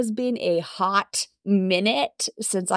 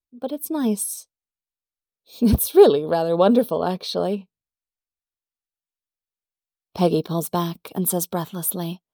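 story narration. A narrator's reading. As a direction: narrate the romance in an even storytelling voice. Narrates the fanfic.

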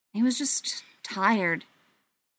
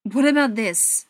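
louder, challenging demand; 6 dB louder than usual. A narrator's reading. Tommy confronting Adam over the scar on his wrist, demanding. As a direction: throw the question out as a demand. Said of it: "Tommy demanded".

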